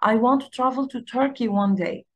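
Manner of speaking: one smooth connected phrase; fluent linking at natural speed; linked words. Shown as a demonstration. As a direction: glue the words together, no gaps. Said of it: "هو ركب الكلمات ولزقها في بعضها".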